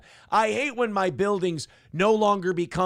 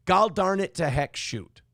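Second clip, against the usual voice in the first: Fargo accent; 2 semitones higher than usual. Shown as a demonstration. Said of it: "but I'm supposed to say".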